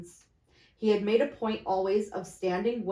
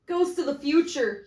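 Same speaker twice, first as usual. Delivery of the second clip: raised, pleading call to the ghost; exclaimed; 7 semitones higher, 5 dB louder than usual. A narrator's reading. Scrooge addressing the silent ghost, raised and pleading. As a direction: cry out to the spirit. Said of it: "he exclaimed".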